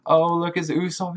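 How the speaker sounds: high-pitched gushing; imitating a starstruck fan. Fan Bartolomeo spots Usopp in a high mock gush. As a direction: squeal like a fan spotting a hero. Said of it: "It's like".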